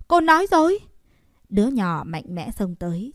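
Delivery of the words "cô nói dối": put-on boy accusing. A narrator's reading.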